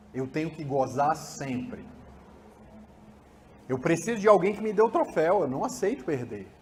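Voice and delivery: can't stand losing, petulant; adult who never learned to lose, sulking; spoiled voice. Shown as a demonstration. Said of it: "Ó a voz do outro".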